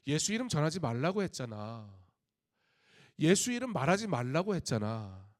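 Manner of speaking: a touch of stern rebuke, lifted in volume; mildly acted scolding, as if laying down a ban; forbidding command. Authorities forbid the apostles to preach Jesus, acted stern command. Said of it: "금지 명령 앞에서".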